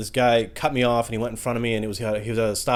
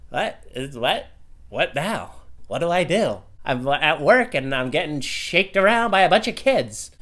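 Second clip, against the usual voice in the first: high, panicky mock fright; flustered and frantic at being shaken; panicked; 5 semitones higher, slower than usual. Panicked self in shaking van.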